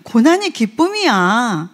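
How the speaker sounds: slow, said with a smile; smiling. Shown as a demonstration. Preacher showing how to say it, slowly with a smile. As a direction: beam as you say it, slowly. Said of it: "우리 웃으면서 이렇게 얘기해".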